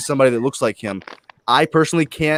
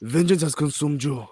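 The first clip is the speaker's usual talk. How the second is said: put-on quoting Black Panther's big line in his African accent; Black Panther's Wakandan accent. On a stream, a friend quoting the Civil War line in Black Panther's accent. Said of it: "you gotta do the accent".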